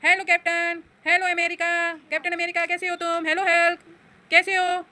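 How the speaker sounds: lightly voiced friendly toy bike. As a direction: offer the ride cheerfully as the bike. Mother voicing the toy bike. (खिलौना bike की हल्की सी आवाज़)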